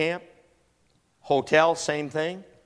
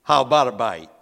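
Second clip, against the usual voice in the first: mock sweet talk; 7 dB louder, much slower than usual. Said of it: "walk up to 'em ... and say".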